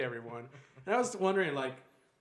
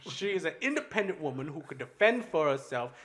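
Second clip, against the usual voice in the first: mock righteous speech; 2 semitones higher, 3 dB louder than usual. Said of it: "And they're like".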